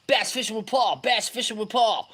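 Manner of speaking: high, repeated hail; excited shout-out. Real, not acted. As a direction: pitch the name up to welcome a viewer. Hailing an arriving viewer by handle.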